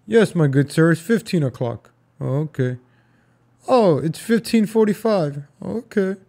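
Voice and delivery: lightly voiced period gentleman; a hint of a proper gent, mock-formal; old-time gentleman. Gentleman answering a request for the time, mock-genteel. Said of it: "they don't say five o'clock".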